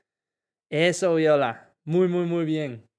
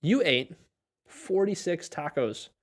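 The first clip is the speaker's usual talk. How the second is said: slow model sentence; 3 semitones higher, slower than usual. Shown as a demonstration. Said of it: "O tú comiste".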